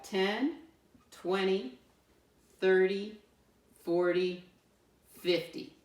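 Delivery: slow, spaced-out counting; counting aloud. Shown as a demonstration. Teacher counts ten rods with pupils, slow counting aloud. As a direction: count up with a pause after each number. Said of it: "We just have to count them up".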